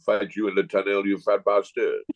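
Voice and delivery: mock Cantona in a poor French accent; bad French accent. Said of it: "That ain't the best French accent".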